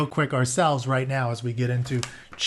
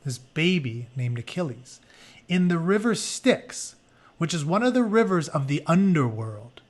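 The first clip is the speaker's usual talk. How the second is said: story narration. Acted. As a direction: read the myth to the class like an epic. Reads story book aloud.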